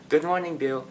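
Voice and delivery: high, cheery morning greeting; put-on happy. Student greets the security officer while hiding depression, put-on happy. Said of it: "I would be all happy".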